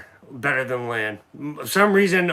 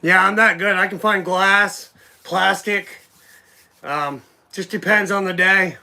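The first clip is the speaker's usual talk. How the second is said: mock bragging; 2 semitones higher, slower than usual. Real, not acted. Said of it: "No, I'm just kidding".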